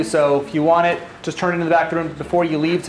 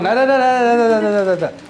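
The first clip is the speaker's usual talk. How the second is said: playful no no no; 5 semitones higher, 4 dB louder than usual. Real, not acted. Stops reader to redo it.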